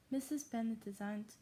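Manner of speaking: put-on German accent, narrating; fake German accent. Shown as a demonstration. Reader resuming the novel after apologising, fake German accent. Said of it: "in my fake German accent".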